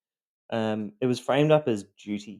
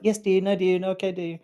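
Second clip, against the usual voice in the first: meek yes dear; 9 semitones higher than usual. Retold or imitated. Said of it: "I was like".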